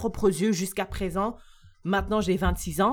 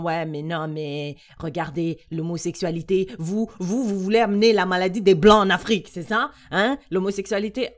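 loud, fast accusing rant; heated retort; 5 dB louder than usual. Retold or imitated. Quoting men's argument against them.

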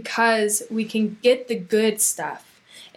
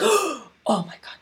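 slow, higher-pitched dismay; stricken three-year-old; 6 semitones higher than usual. Acted. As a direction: take it in like a scolded little kid. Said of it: "The three-year-old is gonna be like".

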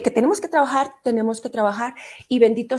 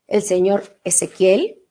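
lower, slow and formal; serious; 4 semitones lower, slower than usual. Shown as a demonstration. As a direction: say it with mock gravity. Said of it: "Déjame pongo seria".

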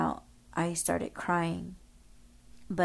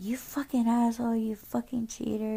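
retold cursing out; 5 semitones higher, faster than usual. Cursing out a laughing cheater, retold angrily in a higher voice. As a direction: imitate your own angry insults at a raised pitch. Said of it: "talking so much shit".

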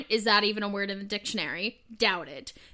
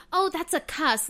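higher, mock-proper Southern lady; lightly voiced prim Southern lady; 4 semitones higher than usual. Mocking people who avoid saying curse, as a proper Southern lady. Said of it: "sounds like a Southern lady".

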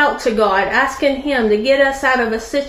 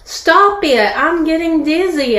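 raised-pitch, mildly screamed plea; mock scream; 4 semitones higher than usual. Spinning teapot to the master, mild mock scream. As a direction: cry out, without a full scream. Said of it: "I screamed".

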